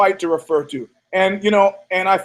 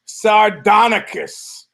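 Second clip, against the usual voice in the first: drawn-out stage name; 4 semitones higher, much slower than usual. Acted. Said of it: "I am your hostess with the mostest".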